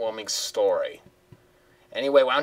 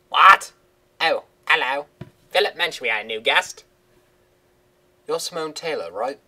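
higher, surprised woman's voice; Simone's voice; 5 semitones higher, 5 dB louder than usual. Acted. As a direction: put on a chirpy TV reporter. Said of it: "her voice is hard to do".

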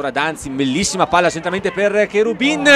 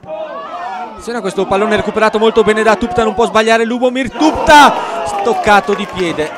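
excited commentary; 5 semitones higher, 4 dB louder than usual. Real, not acted. Commentator builds on Tupta chance.

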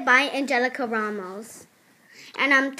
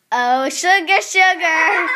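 Piggy catchphrase; 5 dB louder than usual. Retold or imitated. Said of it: "that Piggy video says".

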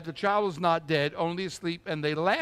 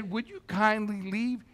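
mock polite; 5 dB quieter than usual. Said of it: "He didn't say".

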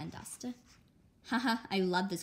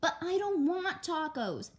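high, loud, slow whine; whining kid; 9 semitones higher, 4 dB louder than usual. Acted. Little sister whines to her parents about dinner, high. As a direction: drag it out.

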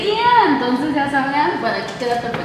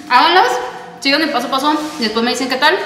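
talking around a mouthful of cookie; mouth full. Real, not acted. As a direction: speak while still chewing. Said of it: "hablando con la boca llena". (con la boca llena)

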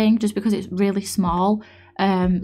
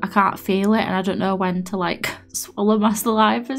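wet, numb, slightly slurred mouth; numb mouth from the dentist. Real, not acted. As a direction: talk around too much saliva. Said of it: "a lot of saliva in my mouth".

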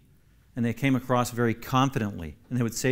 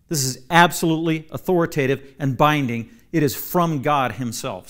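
emphatic declaration; 3 semitones higher, 7 dB louder than usual. Shown as a demonstration. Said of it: "made it emphatic all the more".

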